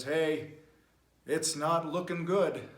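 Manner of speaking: put-on lightly Irish-accented pilot, slowing down. Pilot warning the passengers, light Irish accent. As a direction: put a hint of Irish on the announcement. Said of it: "I don't know why he has an Irish accent".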